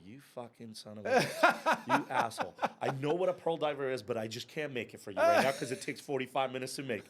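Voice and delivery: retelling her furious reply while cracking up; playful fake fury with laughter; laughing mock outrage. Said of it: "She's like".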